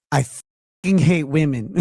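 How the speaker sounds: slow mock Colombian accent; slow line with a touch of Colombian accent. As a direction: imitate a Colombian woman, slowly. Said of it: "her accent. She sounded like".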